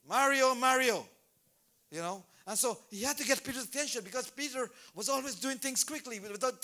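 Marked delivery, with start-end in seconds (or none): 0.1-1.1 slow, louder call of the name twice; double name call. Shown as a demonstration. Getting someone's attention, calling the name twice. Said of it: "you double up on the name".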